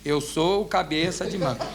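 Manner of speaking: "Eu sou o cabeça de manga" slow and deliberate; measured demo of "Eu sou o cabeça de manga"; dictated phrase. Retold or imitated. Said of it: "agora o senhor vai falar assim".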